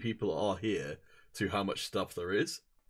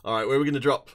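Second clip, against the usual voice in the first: excited; 4 semitones higher, 8 dB louder, much faster than usual. Real, not acted. Excited call to teammate.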